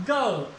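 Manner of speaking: गर्ल said with no r sound; गर्ल, the r dropped before l; girl without r. Shown as a demonstration. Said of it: "आर के बाद ले". (गर्ल बिना र के)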